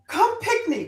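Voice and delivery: put-on high-pitched Jamaican call to the kids; lightly voiced Jamaican accent; Jamaican aunt calling. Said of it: "which is a word for kids".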